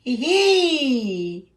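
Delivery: giggling as if tickled; a playful little giggle; ticklish giggle. Acted. Larry tickled on tummy.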